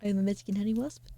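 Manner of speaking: lightly altered, quick chirpy introduction; a hint of a bubbly wasp character; quick playful intro in a lightly put-on voice. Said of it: "This is not my usual voice".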